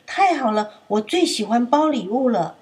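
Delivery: happily looking forward to wrapping gifts; lightly voiced cheerful old elephant; delighted grandma. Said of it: "象婆婆很高兴地说：".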